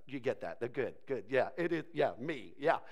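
low-key murmured approval; lightly voiced pleased God. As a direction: accept praise modestly, under your breath. Voices God accepting the praise.

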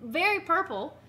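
a light yeehaw southern lady; lightly put-on southern accent. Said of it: "I can just do, like".

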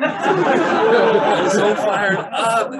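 high, loud, slow excited exclamation; fired-up. Retold or imitated. Telling about the teen encouraging him, excited slow exclaim. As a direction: stretch it out with joy.

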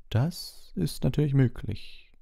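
polite, slow, high-voiced concession; Dumbledore. A narrator's reading. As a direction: concede it courteously and slowly. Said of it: "entgegnete Dumbledore höflich". (höflich, langsam, hohe Stimme)

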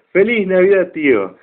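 saludo agudo y entusiasta, más fuerte; sobrino alegre. Retold or imitated. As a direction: grita feliz navidad con ilusión. (¡Feliz Navidad! agudo y alegre)

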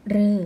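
"เรอ" with a long oe vowel; third reading "roe". Shown as a demonstration. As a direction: model "เรอ" as an open, held syllable. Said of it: "ออกเสียงได้สามแบบ". (ออกเสียง "เรอ" ยาว สระเออ)

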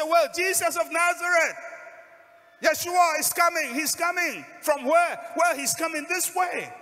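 high, full-voiced crowd shout; loud, high-pitched announcement from the crowd; excited shouting. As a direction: shout the news over a commotion. Crowd shouting news over commotion.

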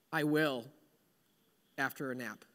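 low, soft, drained murmur; worn-out and barely there; weary reluctant reply. Acted. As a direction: agree half-asleep, fading off. Tired man bargains for a nap.

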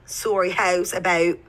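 slow, exaggerated Canadian vowels; Canadian accent. Guest teases host's speech with a mock Canadian accent. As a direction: mimic Canadian "Sorry, house about" slowly. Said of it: "Do you like the Canadian accent?".

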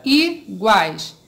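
"iguais" said as i, pause, guais; teacher separating "iguais" syllable by syllable; split into syllables. Shown as a demonstration. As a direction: break "iguais" after the i. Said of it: "Eu fiz a separação da palavra".

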